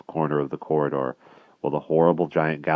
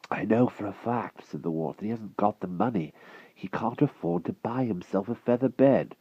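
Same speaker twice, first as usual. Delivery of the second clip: put-on lightly higher boyish voice; earnest small boy speaking up; boy defending his friend to Merlin; young boy pleading; 5 semitones higher than usual. A narrator's reading.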